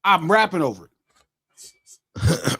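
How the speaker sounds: slow, deliberate "I'm rapping over it"; drawn-out reply. Real, not acted. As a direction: stretch each word out calmly. Slow emphatic answer.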